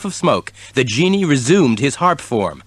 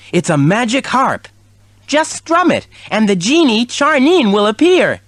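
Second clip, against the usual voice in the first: kitten voice; 11 semitones higher, 3 dB louder than usual. A narrator's reading. Kitten voice in story.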